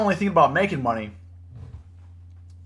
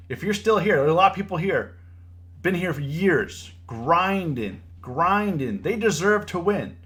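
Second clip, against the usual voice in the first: impassioned rant, pitched up at the start and finish; getting heated; 4 semitones higher than usual. Real, not acted. Trader defending the long-time grinders in chat, getting heated. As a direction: speak up hotly for those who stuck it out. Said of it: "Sorry, I'm getting heated".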